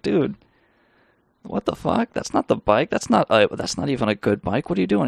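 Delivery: mock-indignant, cheated out of a bike; retold angry outburst. Cheated bike trader snapping at Meep Sheep, mock angry. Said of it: "And the guy's like".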